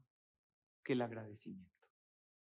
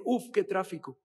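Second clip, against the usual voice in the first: exasperated sigh, louder and higher; mock fed-up driver; complaining; 5 semitones higher, 8 dB louder than usual. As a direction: groan about the traffic. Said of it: "En lugar de decir".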